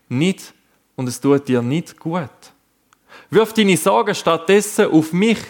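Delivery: a loving parent gently saying no; God's gentle voice. Acted. Preacher voicing God comforting the worried listener, tender. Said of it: "dem gegenüber steht Gottes Stimme".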